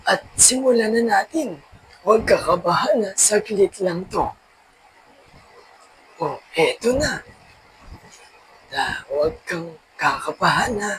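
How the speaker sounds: quiet words of comfort before starting; reassuring. Acted. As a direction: gently settle a nervous patient. Calming nervous boy before the cut.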